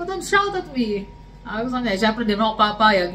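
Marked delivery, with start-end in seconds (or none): 0.0-1.1 firm retort. Retold or imitated.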